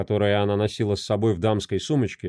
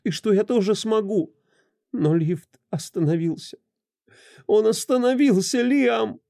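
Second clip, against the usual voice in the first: high, tearful explaining building to a cry; tearful pleading; 8 semitones higher than usual. Acted. A desperate wife pleads with her husband, crying harder. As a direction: sob it out, rising to despair.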